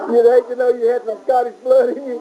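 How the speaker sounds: talking through a laugh; giggling teasing about Scottish blood. Real, not acted. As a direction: keep laughing as you tease.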